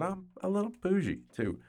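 mock-posh high tone; high bougie voice. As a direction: play up the bougie self. Playful bougie admission.

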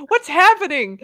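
high, loud startled cry; a sudden alarmed what's-going-on; retold surprise at the screen. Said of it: "and I'm like".

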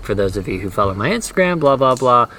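fast, rattled-off plug; rushed self-quote. Retold or imitated. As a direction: zip through it like a routine plug. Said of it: "saying, like".

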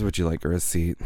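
uninflected, unsmiling imitation of a clerk; mimicking a clerk with no inflection; expressionless clerk. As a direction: recite it like an uninterested clerk. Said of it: "no inflection in her voice".

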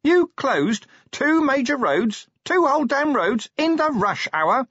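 very high incredulous shout; outraged yell. A narrator's reading. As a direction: yell in appalled disbelief. Outraged yelling at Carrot.

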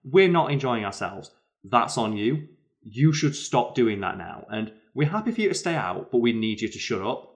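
firm dressing down. Retold or imitated. Woman calling out drunk man.

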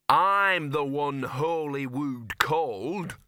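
slow self-pitying grumble, dog voice; self-pitying mutter. A narrator's reading. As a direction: mutter it, sorry for yourself. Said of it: "Gaspode muttered in a self-pitying voice".

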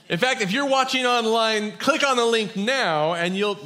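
loud, high pushy scam pitch; hammed-up pushy scammer. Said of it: "no, just kidding. We're not gonna scam you".

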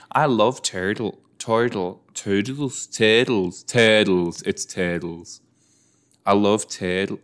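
trying out Australian vowels on "turtle"; attempted Australian accent. Shown as a demonstration. Viewer practising the word turtle, attempted Australian accent. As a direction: repeat "turtle", hunting for the Australian sound. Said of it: "I'm trying to do an Australian".

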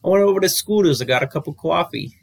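mock New York accent, lightly done; a weak try at a New York accent; bad New York accent. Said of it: "That was a bad accent".

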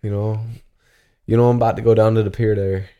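playful mock Newfoundland accent; hammed-up Newfie dialect. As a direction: put on a rough Newfoundlander accent. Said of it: "I can't do the accent".

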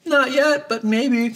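put-on high, coy girl voice on both lines.

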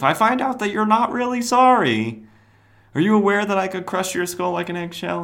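high, strained hammy warning; over-the-top scolding menace; mock threat. Ambush Bug letting Cobra go with a warning, mock threatening.

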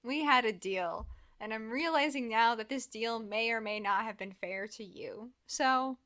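loud, excited retelling; hammed-up loud Edward voice; loud mock Edward. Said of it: "I'm looking at Edward and I'm like".

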